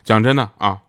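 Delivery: usual speaking voice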